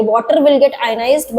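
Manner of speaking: very slow with weight on will; slow, stressed will. Shown as a demonstration. Teacher correcting the term for water, slow and stressed. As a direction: lean on will, crawl through it. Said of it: "water को dissociation नहीं बोलेंगे".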